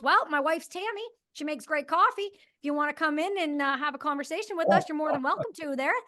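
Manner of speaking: friendly Canadian inviting them for coffee; Canadian accent. Retold or imitated. Homeowner invites the agents in, in a Canadian accent. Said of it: "I'm gonna try to do the Canadian accent".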